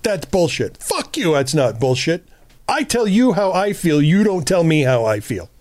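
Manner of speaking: "Fuck you." flung out high and sharp in a mock-defensive rant; defensive outburst. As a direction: replay your old touchy, defensive self snapping back. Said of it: "wildly annoyed and extremely defensive".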